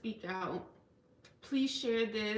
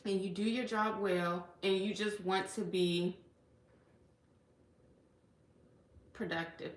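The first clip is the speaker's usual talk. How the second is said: fighting back real tears as she speaks; fading to a near-silent last word; tearful. Real, not acted. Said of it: "I didn't think I was gonna cry".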